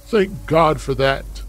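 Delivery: slow, grateful relief. Acted. Mother thanks God her son feels no pain, slow relief. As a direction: let out a thankful breath of relief.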